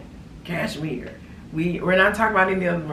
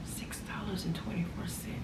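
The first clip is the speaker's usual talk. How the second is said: breathy whispered price, much softer; 13 dB quieter than usual. Shown as a demonstration. Telling viewers the price, in a soft whisper. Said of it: "Let me whisper it".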